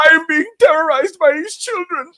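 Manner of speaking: high, hammed-up Jamaican Grim Reaper. Friend quotes the Grim Reaper in a high, mock Jamaican whine. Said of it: "that nigga was literally like".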